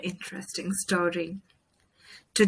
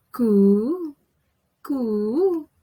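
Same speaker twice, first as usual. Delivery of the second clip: bird cooing; 4 semitones higher than usual. Acted. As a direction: coo like a little bird. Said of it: "sing the birds".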